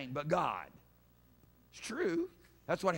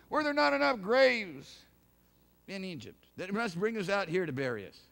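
mock complaint; 3 dB louder than usual. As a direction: hurl "not" as a loud sarcastic grumble. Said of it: "They wouldn't believe what was told them".

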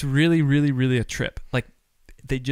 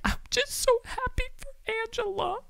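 put-on much higher gushing little-girl voice; imitating little daughter; 6 dB quieter than usual. Dad voicing his daughter happy for the bride, high gush. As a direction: squeal it like an overjoyed little girl. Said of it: "She's like".

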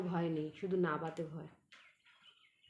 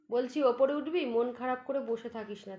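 coaxing the cat; 5 semitones higher, 5 dB louder than usual. Real, not acted.

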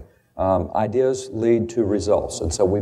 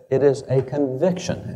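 "conviction" set apart, the phrase slowed down; slow down to weigh the word "conviction"; stress on conviction; 3 semitones higher than usual. Acted. Lecturer quoting Jefferson on liberty, stress on "conviction". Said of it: "I would emphasize the word conviction".

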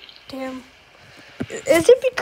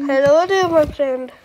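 friendly put-on Indian accent; 2 semitones lower than usual. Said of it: "I'm gonna act as Indian".

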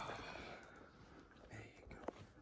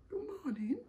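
whispered greeting; much faster than usual. Real, not acted. Whispered greeting to waking baby.

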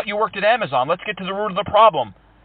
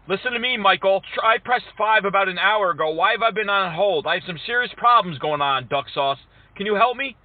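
mildly exasperated caller; mock-frustrated customer complaint; aggrieved customer. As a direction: complain like a put-upon customer. Prankster plays customer kept on hold.

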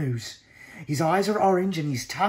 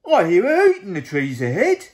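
louder, booming monster voice; Gruffalo voice; 5 semitones higher, 11 dB louder than usual. Acted. Gruffalo eyes the mouse as food, booming. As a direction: rumble it like a big hungry monster.

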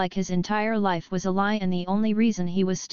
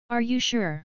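gentle; 3 semitones higher than usual. A narrator's reading. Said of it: "checked on him with a gentle voice".

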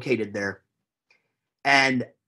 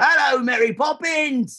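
Dick Van Dyke cockney; 12 semitones higher than usual. Retold or imitated. Texan mocking the Dick Van Dyke English accent. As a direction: ham up a bad cockney accent. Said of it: "Everybody does Dick Van Dyke".

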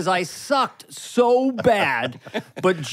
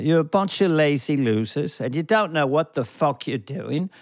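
light Michael Caine. Pretend. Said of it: "light version of Michael Caine".

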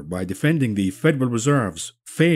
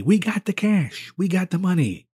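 mock boast; 7 semitones higher than usual. Parodying her claim.

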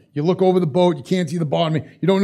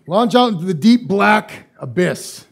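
ominous slow build; 3 semitones higher, slower than usual. Retold or imitated. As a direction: stretch it out like something lurking below. Deep lakes creep him out.

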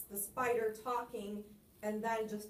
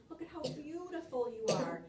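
raised, coaxing praise; admiring flattery; 4 semitones higher than usual. Shown as a demonstration. Spider praising the fly to lure it, coaxing and high. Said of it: "picture exactly in your mind".

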